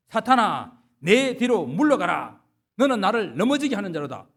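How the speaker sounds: stern rebuke. Retold or imitated. Jesus rebukes Peter, quoted.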